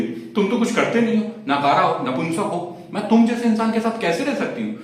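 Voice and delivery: mock a girlfriend's scolding complaint; nagging girlfriend. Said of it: "तब तक बोलती रही". (प्रेमिका के तानों की नकल)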